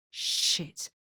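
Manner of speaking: a breathy whispered "Shit"; whispered alarm; whispered curse. Acted. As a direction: hiss the curse under your breath. Sees the thing about to blow.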